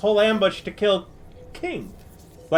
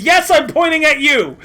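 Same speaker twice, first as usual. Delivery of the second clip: mocking confirmation; 4 semitones higher, 5 dB louder than usual. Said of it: "he points at Oddball and he says".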